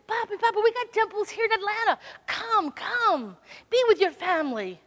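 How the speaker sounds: lightly voiced daughter coaxing. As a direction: urge Papi to come. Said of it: "He said".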